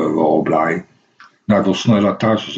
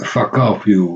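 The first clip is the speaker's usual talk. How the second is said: afgezwakte herhaling; slower than usual. Retold or imitated. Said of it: "ik zei alleen maar".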